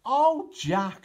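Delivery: mum cries out. A narrator's reading. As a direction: call out to her lost son. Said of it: "she cried".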